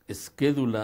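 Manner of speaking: "esquédula" dicho claro, sílaba por sílaba; pronunciación latina. Shown as a demonstration. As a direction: marca bien "es-qué-du-la" con acento en qué. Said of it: "así como lo oyen". ("esquédula" pronunciada con cuidado y claridad)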